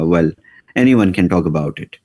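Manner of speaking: normal talking voice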